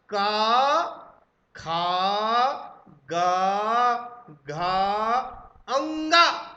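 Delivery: loud, slow, separate syllables for repeating; teacher drill. Shown as a demonstration. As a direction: sound out each letter for students to copy. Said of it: "बोलिए मेरे साथ". (कक्षा में ज़ोर से अक्षर बोलना)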